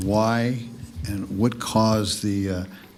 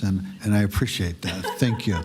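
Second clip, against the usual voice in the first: laughing. Real, not acted. Joke about not being gavelled.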